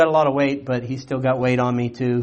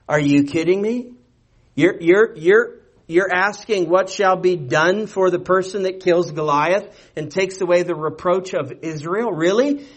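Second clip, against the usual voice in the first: incredulous; 3 semitones higher than usual. Retold or imitated. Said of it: "David says this incredulously".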